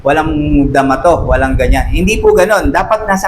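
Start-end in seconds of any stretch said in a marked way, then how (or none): 0.1-1.9 lower, brushing-off "ay, wala yan"; lightly voiced scornful gossip; mock dismissive. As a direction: wave it away, dropping low. Mimicking dismissal of unemotional person.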